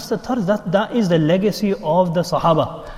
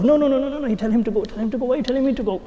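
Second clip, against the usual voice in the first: high-pitched mock protest; indignant refusal; 8 semitones higher, faster than usual. Worshipper asked to move forward passes it on, high protest. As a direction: protest in a high, put-upon voice.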